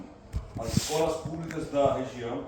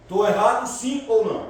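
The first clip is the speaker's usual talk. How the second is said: higher and louder, calling out to the room; rallying call; 6 semitones higher, 8 dB louder than usual. Real, not acted. Speaker rallies the students to answer back, loud and high. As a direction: pump the crowd for an answer.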